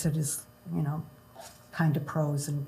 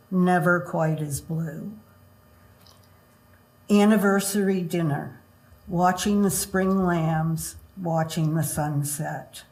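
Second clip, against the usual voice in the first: measured, unhurried poem recital; poetry reading. Acted. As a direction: read each line like a haiku, pausing. Reads her haiku aloud.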